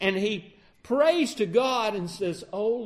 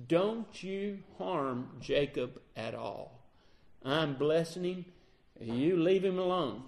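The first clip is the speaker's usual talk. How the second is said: low, quiet, slow voice of God; God's hushed warning to Laban; 3 semitones lower, 5 dB quieter than usual. Retold or imitated. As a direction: warn him gravely and softly, from above. God warns Laban in a dream.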